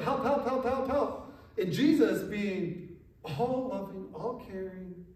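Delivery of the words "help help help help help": higher, rapid repeated pleas; imitated cry for help. Desperate mother crying out to Jesus, imitated plea. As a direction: act out a desperate plea, mildly raised. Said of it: "she cries out".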